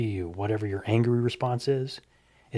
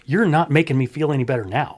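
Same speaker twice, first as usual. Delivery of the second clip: laughing complaint; 3 semitones higher, 6 dB louder than usual. Retold or imitated. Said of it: "He goes".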